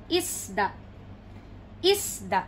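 "Isda" with stress on IS, falling; stress on first syllable. Shown as a demonstration. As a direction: lean on IS in "Isda", short final da. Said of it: "the stress is in the middle".

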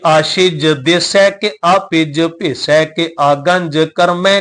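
measured, slow path reading; slow scripture recitation. Acted. Teacher reciting Jaap Sahib for the sangat, slow and measured. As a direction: recite each word carefully, slowly.

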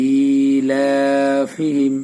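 ইলাফিহিম with the first two vowels drawn out slowly; madd lengthening. Shown as a demonstration. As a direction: stretch ই and লা in ইলাফিহিম. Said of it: "প্রথমটা টান, দ্বিতীয়টায় টান". (ইলাফিহিম প্রথম দুটিতে টান)

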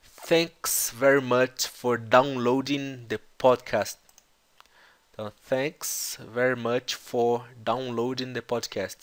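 very slowly, each word separate; slow teaching demo. Shown as a demonstration. Teacher to students, spelling out the host's thanks slowly. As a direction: stretch every word so learners catch it. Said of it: "teacher repeats clip slowly".

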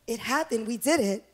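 softly marveling at being married; a quiet, moved whisper of wonder; hushed, tender. Retold or imitated. Bride to pastor, alone after the wedding, softly awed. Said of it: "And we just said".

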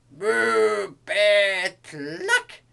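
loud high moo, bleat and cluck; animal cries. A narrator's reading. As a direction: burst out with farm animal noises. Animals' cries, misheard by recognizer.

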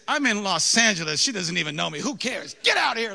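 hammed-up dismissive retort; mock defiant outburst. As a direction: brush it off with mock outrage. Acts out defiant retort to conscience.

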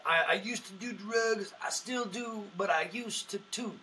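a hint of Mitch Hedberg's drifting delivery; Mitch Hedberg impression. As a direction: lightly mimic a stoner comic's deadpan one-liner. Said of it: "He'd be like".

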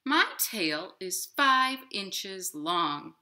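slow, pleased bird voice; proud robin. Acted. Robin proudly marvelling at his tail, slow and pleased. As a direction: marvel at it slowly. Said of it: "said the robin".

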